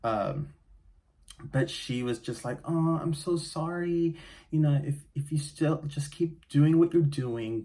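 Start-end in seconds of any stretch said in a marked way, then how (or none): 2.6-7.6 imitating doctor. Doctor's sympathetic brush-off, voiced.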